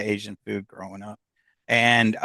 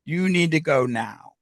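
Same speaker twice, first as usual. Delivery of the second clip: dad's insistent voice; 3 semitones higher than usual. Retold or imitated. Dad's voice in daughter's head redirecting her drive, lightly imitated insistence. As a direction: imitate a father overruling, drawing out the command. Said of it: "And I hear his voice goes".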